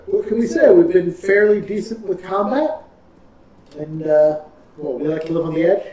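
talking through hiccups; hiccuping. Real, not acted. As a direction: hiccups breaking the words. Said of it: "with the way I'm hiccuping".

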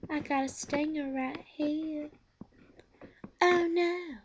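a lightly voiced bee warning he'll sting; Talking Bee impression. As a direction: kid lightly imitating a bossy cartoon bee. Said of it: "he sounds like this".

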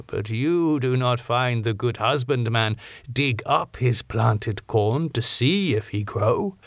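a hint of a grave foreign scholar, measured; old Dutch professor. Van Helsing explains patiently.

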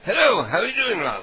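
sweetly fake-friendly to the stranger; sugary prank voice. Prank caller's put-on sweet greeting.

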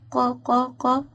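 "ق" repeated as a sounded-out qa syllable; qaf with fatha. Shown as a demonstration. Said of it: "قاف فتحة".

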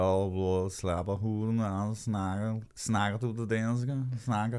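mumbled mock Danish gabble. Host imitating how Danish sounds to him, mock Danish. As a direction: imitate Danish with swallowed consonants. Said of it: "some Danish pronunciation is like".

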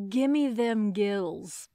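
slow, savoring gimme them gills; drawn-out gimme. Shown as a demonstration. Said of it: "I like".

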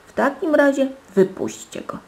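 high, loud petulant order; calling out. A narrator's reading. Princess ordering the live bird released, calling out. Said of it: "zawołała księżniczka".

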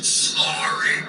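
rusty unused voice. Acted. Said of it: "is that my voice?".

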